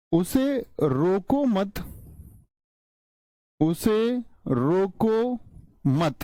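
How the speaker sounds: उसे रोको मत said slowly, stopping after मत; pause after मत. Shown as a demonstration. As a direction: hold the stop right after मत. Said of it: "यहां तक आपने बोला".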